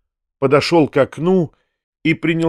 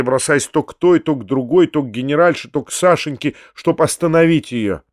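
plain reading voice

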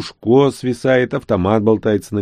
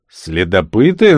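suspicious; 5 dB louder, slower than usual. Acted. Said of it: "нахмурился Старлей".

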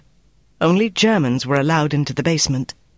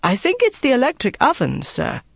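put-on higher-pitched, worried young cook; 8 semitones higher than usual. A narrator's reading. Young cook reporting to the officer, worried. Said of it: "A worried-looking young cook said".

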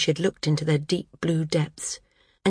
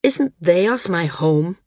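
mildly indignant; 4 dB louder, slower than usual. Acted. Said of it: "He sounded mildly indignant".

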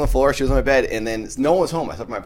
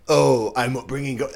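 self-mocking; 3 semitones higher than usual. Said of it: "I sound like".

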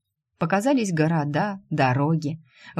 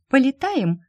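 put-on playful little girl; 8 semitones higher, 4 dB louder than usual. Child girl invites Shu to fly.

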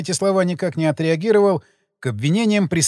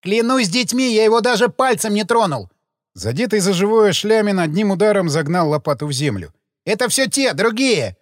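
put-on gravedigger pitched up, swearing by his children; desperate oath; 4 semitones higher than usual. Gravedigger swearing to detectives he never touched the man, desperate. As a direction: plead as if your life depends on it.

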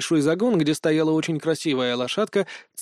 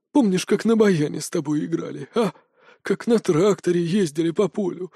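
put-on high, tender old voice; a grandfather reminiscing happily; joyful old man; 5 semitones higher than usual. Old man overjoyed at reunion.

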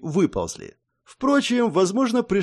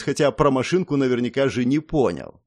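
usual speaking voice

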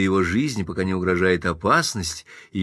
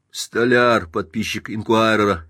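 ordinary delivery, nothing marked

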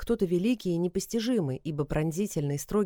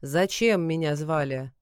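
thunderous god voice; 2 semitones lower, slower than usual. Acted. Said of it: "громоподобным голосом".

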